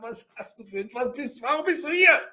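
mild mock yell, rising at the end; half-voiced shouting at a useless guard; retold yelling. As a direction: demand an answer, re-enacting exasperation. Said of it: "ich schreie dann".

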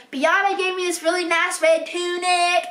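a hint of a Southern accent. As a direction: quote her with a light Southern twang. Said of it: "I don't know why she's Southern".

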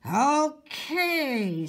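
exasperated mother with teeth clenched; through clenched teeth. Acted. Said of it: "said Missus Monroe through clenched teeth".

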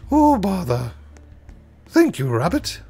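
high, loud bumbling bear voice; Pooh Bear. Pretend. Streamer thanking Rabbit as Pooh, high bear voice. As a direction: play a dopey honey-loving bear. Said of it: "didn't sound anything like Pooh Bear".

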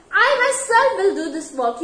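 firm weight on "I myself"; "myself" pushed up, then falling away; emphatic stress. Shown as a demonstration. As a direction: lean on "I myself" to insist. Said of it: "give the strong pressure to the subject".

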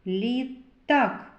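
"Літак" with a short gap before a punched "т"; pause, then tap the T in "Літак"; Т singled out. Shown as a demonstration. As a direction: sound out the middle consonant of "Літак". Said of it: "Звуковий аналіз слова".

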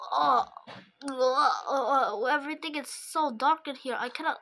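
fast, whimpering panic in the dark; a mock-frightened cry, words tumbling out; scared whimper. Robot trapped in the dark.

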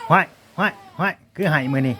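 lightly imitating a crying baby; a hint of a wailing baby; mock baby cry. (เลียนเสียงเด็กร้องไห้เบาๆ)

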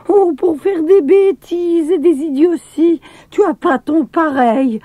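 a hint of a furious girl; mock furious scolding. A narrator's reading. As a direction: scold him like an angry maid. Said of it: "tempêta-t-elle".

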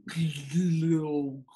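choked-horn glug noise; mock blocked-horn sound; imitated gurgling glug. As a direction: make a clogged trumpet sputter. Imitates a clogged trumpet.

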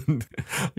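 brief breathy laugh at oneself; short laugh. Real, not acted. Narrator trips over the example words, short self-amused laugh. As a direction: let out a little laugh at the slip. Laughs at own tongue-tied demo.

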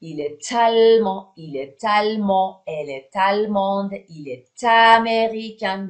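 "est allemand" linked as "è-talmand", "est américain" as "è-taméricain"; teacher's clear model of the t linking "est" to the next vowel; with liaison. Shown as a demonstration.

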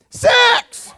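high, loud laughing punchline; laughing shout. Real, not acted. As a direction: blurt it out with a laugh.

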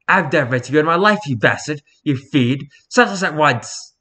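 lightly voiced prim outrage; haughty Victorian child. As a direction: scold like an affronted little aristocrat. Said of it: "cats talk like this disparage of Victorian children".

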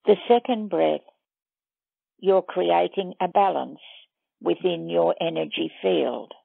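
measured meditation guide with long pauses; guided meditation. Acted. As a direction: lead listeners step by step, leaving long silences between phrases.

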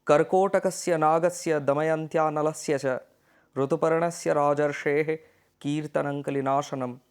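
a clear, even reading of the Sanskrit sloka; sloka recitation. Shown as a demonstration. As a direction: recite the verse again at a steadier pace. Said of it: "এই যে শ্লোকটি পড়লাম". (শ্লোকের স্বাভাবিক আবৃত্তি)

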